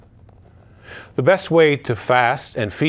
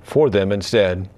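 measured, solemn proclamation of scripture; gospel reading. Acted. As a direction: read the passion aloud to the congregation, unhurried.

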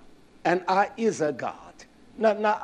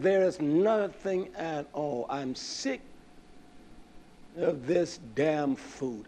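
whiny complaint; 6 dB quieter, slower than usual. Retold or imitated. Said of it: "that's the way they said it".

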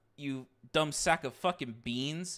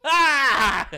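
startled laughing yelp; 8 semitones higher, 12 dB louder than usual. Real, not acted.

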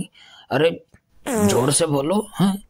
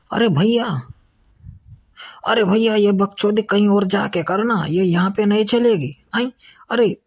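high-pitched scolding; 6 semitones higher than usual. Acted. Girl scolds the teaser.

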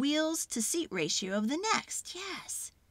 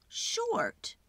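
whispered word; 12 semitones higher than usual. A narrator's reading. Describing small size playfully.

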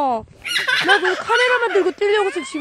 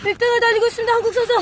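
higher, louder sportscaster call; mock commentator; 7 semitones higher, 4 dB louder, faster than usual. Narrating her partner's sled run as a mock sports commentator. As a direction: hype it up like a race announcer.

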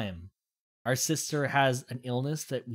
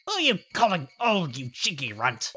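lightly voiced cranky shopkeeper; annoyed old lady. Old lady scolding the cheeky runt, irritated.

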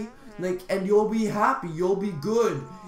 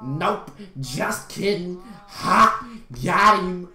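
louder, taunting imitation; mocking jerk; 4 dB louder, slower than usual. The guy refusing to share chocolate, mocking. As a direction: imitate a gloating prankster. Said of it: "He was like".

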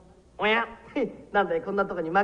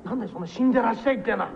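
indignant retort. Acted.

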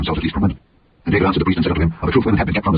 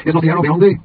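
higher and louder call across the field; crying out; 9 semitones higher, 4 dB louder than usual. Acted. Jonathan calling out to the lad about the arrow, loud high call. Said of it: "Jonathan cried out to the lad".

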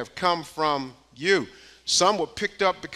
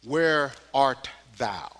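put-on slow, solemn old English phrasing; King James reading; 6 semitones lower, 4 dB quieter, slower than usual. Shown as a demonstration. Preacher quoting the King James Bible, slow and solemn. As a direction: intone it like scripture. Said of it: "I'll quote it from King James 'cause it sounds so good".

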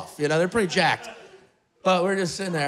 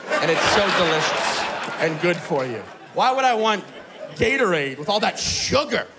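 mock rapture over kombucha; 4 semitones lower than usual. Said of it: "It's like".

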